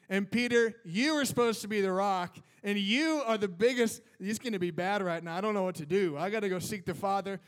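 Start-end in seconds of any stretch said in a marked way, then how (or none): 0.1-4.0 louder, hammed-up rebuke; mock scolding. Imagined Jesus scolding Peter, louder mock rebuke. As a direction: tease like a frustrated coach. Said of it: "you don't see Jesus here like".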